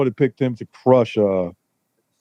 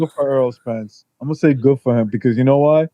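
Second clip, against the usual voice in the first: muffled phone. Real, not acted. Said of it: "It sounds like you're muffled a little bit".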